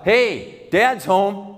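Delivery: high-pitched call through the house. Acted. Father coming home to a dark house, calling out. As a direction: call out for the family. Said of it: "So he calls out".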